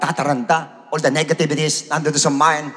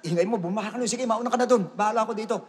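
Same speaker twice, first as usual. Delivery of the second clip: calm husband; 7 semitones higher, 5 dB quieter, faster than usual. Retold or imitated. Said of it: "Kalmante lang".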